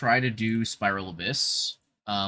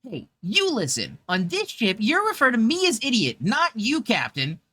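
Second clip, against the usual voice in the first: high, louder girlish cartoon voice; bossy captain line in a squeaky cute-girl voice; high-pitched girly captain voice; Chloe voice; 10 semitones higher, 4 dB louder than usual. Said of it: "in, like, a, a Chloe voice".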